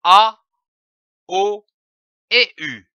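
A called out loud and high; loud demo vowel. Shown as a demonstration. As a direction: belt the vowel A for the class. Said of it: "devant les voyelles".

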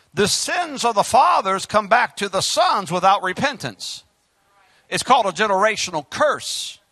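emphatic pulpit warning; measured, punchy sermon delivery; preaching. Acted. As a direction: press the point on the congregation like a preacher. Preaches to the congregation.

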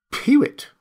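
high-pitched little bird call; peewit call. A narrator's reading. A remote peewit over the downs, piping bird call. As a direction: pipe it like a distant peewit. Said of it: "said a peewit".

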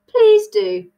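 high, loud and polite; bright-pitched polite urging. A narrator's reading. Alice asks the Hatter to sing, politely eager. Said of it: "Alice said politely".

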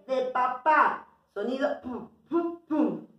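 teacher popping the p; letter sound demo. Shown as a demonstration. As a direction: pop the "pum" sound gently.

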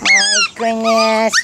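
high, slow "My goodness" with MY lifted; drawn-out my goodness. Real, not acted. To the excited puppy, a high, stretched-out my goodness. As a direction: stretch out "My goodness" in mock amazement.

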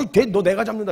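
acted burst of fighting spirit; worked-up challenge. David lunging toward the enemy, worked-up challenge. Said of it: "막 흥분하면서 막 갈라 그러니까".

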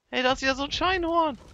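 high, loud burst of surprise; excited discovery. Real, not acted. Player spots a unicorn creature, excited discovery. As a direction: call it out like a sudden find.

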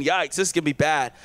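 muttered low and soft, a mock worried aside; a quiet mock cringe at the smell; mock worried thought. Onlookers at the tomb, a low soft mock worry. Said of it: "I'm sure they're all thinking".

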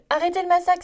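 loud, high exasperated outcry; cry out. Acted. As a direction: stop him mid-sentence, begging for mercy. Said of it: "s'écria le canard".

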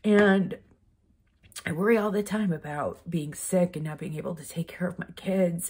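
whispered through tears, barely voiced; emotional whisper. Real, not acted. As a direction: let the worry drop to a whisper. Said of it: "I'm sorry I get emotional".

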